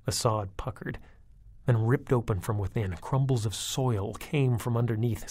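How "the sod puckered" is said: ordinary delivery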